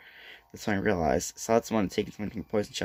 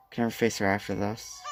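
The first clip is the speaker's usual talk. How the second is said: choked sob; 4 semitones lower, 4 dB quieter than usual. Acted. Broken crying line.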